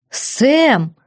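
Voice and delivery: the duke calls her name from behind; thundered. A narrator's reading. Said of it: "прогрохотала сзади".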